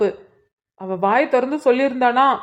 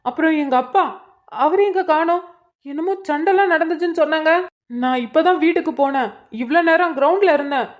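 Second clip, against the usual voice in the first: anxious; 3 semitones higher than usual. Acted. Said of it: "எதுக்குடா இப்படி பதட்டமா பேசுற".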